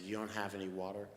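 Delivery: talking low. Retold or imitated. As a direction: drop the voice in disbelief. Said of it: "start talking so low".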